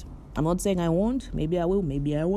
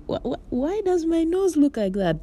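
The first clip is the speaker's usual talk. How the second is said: high, stammering dismay at the nose; shocked at own photo; 13 semitones higher than usual. Retold or imitated. Seeing her own photo, stammering high in shocked dismay. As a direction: gasp at your own nose, voice jumping up. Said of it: "you're like".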